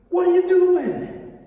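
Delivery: high, slow, anguished cry; a man watching an innocent stoned cries out; horrified outcry. Acted. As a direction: cry out in disbelief at the stoning. Horrified thought at stoning.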